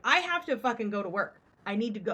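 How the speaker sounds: retold anger. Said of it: "now I'm getting pissed".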